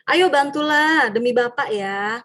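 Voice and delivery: slow, coaxing plea; friendly appeal. Retold or imitated. Teacher asking a pupil for help as a friend, coaxing plea. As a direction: coax the pupil like a buddy.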